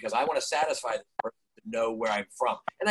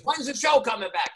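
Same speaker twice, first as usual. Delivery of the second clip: 1 shouted question; 9 semitones higher than usual. Retold or imitated. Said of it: "he goes".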